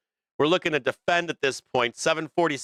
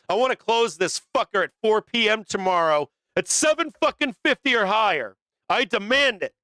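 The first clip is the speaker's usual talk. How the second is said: hyped demand; 5 semitones higher than usual. Real, not acted. Trader on stream demanding the market close higher, fired up. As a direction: demand it like you're ordering the market around.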